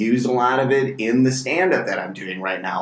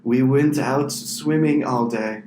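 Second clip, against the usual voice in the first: deadpan Swede. Retold or imitated. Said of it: "They're like".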